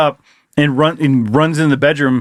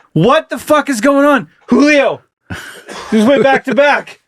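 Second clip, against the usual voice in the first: high, worked-up fan outburst; excited yelling; 11 semitones higher than usual. Acted. Fan and family as Julio goes back to back, excited yelling. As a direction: shout the news with the pitch way up. Reenacts commotion after second homer.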